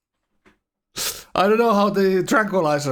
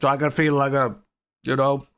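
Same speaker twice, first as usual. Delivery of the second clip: speaking with a numb jaw after the dentist; numb mouth. Real, not acted. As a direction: talk as if half your mouth is numb. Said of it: "if I sound a little bit differently than normally".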